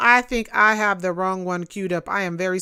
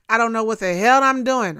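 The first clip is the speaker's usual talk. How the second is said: louder, fast and exasperated; exasperated outburst; 6 dB louder, faster than usual. Real, not acted. Host fumbling the stream, exasperated and loud. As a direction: blurt it out in frustration.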